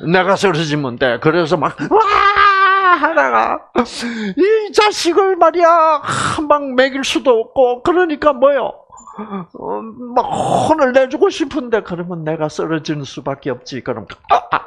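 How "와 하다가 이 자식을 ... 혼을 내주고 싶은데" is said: high, crying, fed-up wife. Retold or imitated. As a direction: wail like a wronged wife. Voicing a woman fighting her husband. (분통 터진 아내처럼 높게 울먹이며)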